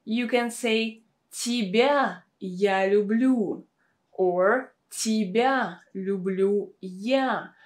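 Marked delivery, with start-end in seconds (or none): 1.3-3.6 Тебя leads, slow and stressed. Shown as a demonstration. Teacher showing emphasis to learners, stress on Тебя. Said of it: "we have the emphasis on the word". 4.9-7.5 slow phrase with Тебя stressed first. Shown as a demonstration. Teacher demonstrating word order, stress on Тебя. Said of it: "we have the emphasis on the word".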